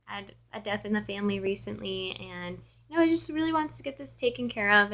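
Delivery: soft, worn-out phone voice; tired, out of it. Retold or imitated. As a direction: reenact a weary handover to a colleague. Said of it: "I was kind of out of it".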